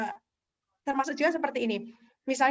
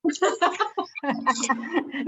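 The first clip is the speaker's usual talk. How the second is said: laughter. Real, not acted. Laughing at a teasing remark.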